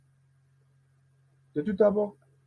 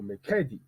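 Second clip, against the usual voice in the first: "mercredi" with the middle syllable stressed, end falling; wrong-syllable stress; 3 semitones lower than usual. Shown as a demonstration. Teacher showing another wrong take, middle stress on "mercredi". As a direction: lean on "cre" in "mercredi". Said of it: "Pourquoi on ne pas dire".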